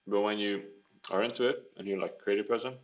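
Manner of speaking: talking through a mouthful of food; mouth stuffed with food. Real, not acted. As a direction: speak with your mouth full, chewing. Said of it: "mouth is stuffed with food".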